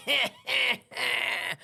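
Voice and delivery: drawn-out mock gloating laugh; imitated triumphant laugh. Woman passing the glass on her way to booking, imitated laugh. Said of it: "went like this".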